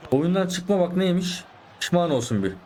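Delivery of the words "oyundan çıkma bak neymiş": slow, drawn-out gloating taunt; mocking the quitter. Real, not acted. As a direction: rub it in, slowly. Taunting opponent slowly.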